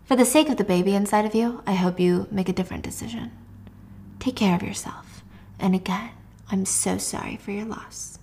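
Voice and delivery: sombre condolence. Acted. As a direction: offer condolences gently and gravely. Retelling grave condolences.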